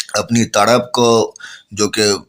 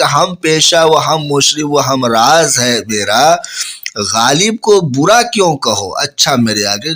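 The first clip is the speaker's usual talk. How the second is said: poem recitation; 3 semitones higher than usual. Acted. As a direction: declaim the couplet with feeling. Recites the couplet again.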